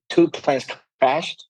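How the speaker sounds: a laugh breaking in mid-sentence; amused, chuckling after the key word. Real, not acted. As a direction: say it through a brief laugh. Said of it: "I'm laughing now".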